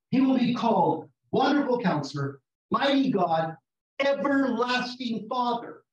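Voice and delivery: loud, ringing scripture proclamation; a preacher's loud proclamation; proclaiming loudly. Acted. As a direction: declare the titles with full force.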